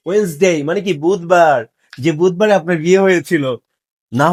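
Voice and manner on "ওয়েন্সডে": "ওয়েডনেসডে" lower, as wenz-day; "ওয়েডনেসডে" in two syllables, wenz-day; correct pronunciation. Shown as a demonstration. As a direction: say "ওয়েডনেসডে" without the first D. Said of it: "এই ডির উচ্চারণ নেই".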